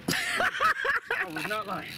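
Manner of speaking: laughing while talking. Real, not acted. Exhausted fighting a fish.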